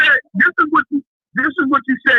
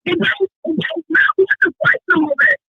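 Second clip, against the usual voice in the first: high, worked-up protest; raised-pitch arguing down the phone; screaming again; 5 semitones higher than usual. Real, not acted. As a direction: shout over the other caller. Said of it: "You back screaming again".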